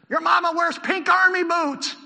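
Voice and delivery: loud, high, drawn-out taunt; yelled insult. Acted. Philistines yelling insults at Jonathan, high slow holler. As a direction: holler it across at the enemy, slowly. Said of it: "They could have just yelled insults".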